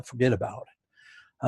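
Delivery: slow, lightly put-on New York accent. Shown as a demonstration. Showing listeners his catchphrase, slow New York accent. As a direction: draw it out in mild New Yorkese. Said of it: "this is my New York accent".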